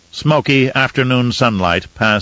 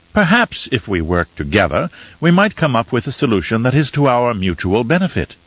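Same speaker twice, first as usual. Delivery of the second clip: sincere apology. Shown as a demonstration. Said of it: "phrase your response with sincerity and genuine apology".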